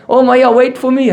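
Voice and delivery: high-pitched acted plea; mildly panicked little boy calling after his mother; frightened child. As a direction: imitate a scared child begging not to be left. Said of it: "Krishna is so frightened".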